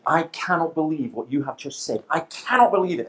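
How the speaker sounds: indignant, rising on the repeat; mock angry yell. Angry man at the back of a London debate, retold yell. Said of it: "he yelled at the back".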